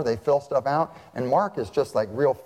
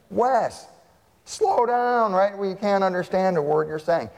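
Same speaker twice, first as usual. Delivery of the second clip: put-on calling to a kid; 6 semitones higher than usual. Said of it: "what did we say to him".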